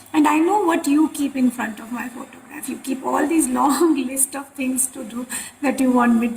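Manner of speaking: mild teasing imitation of the guru; joking. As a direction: tease with a laugh creeping in. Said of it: "he started joking with us".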